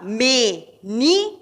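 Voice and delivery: "Menino" in three slow separate syllables, me, ni, no. Shown as a demonstration. Teacher asking which syllable is strongest, slow split "Menino". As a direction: break "Menino" apart slowly for counting. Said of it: "Qual é o mais forte?".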